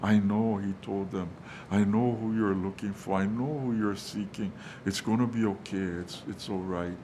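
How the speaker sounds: gentle, hushed reassurance to frightened women; soft reassuring angel. Retold or imitated. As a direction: soothe them softly, like a comforting angel. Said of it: "sometimes it's in a very soft voice".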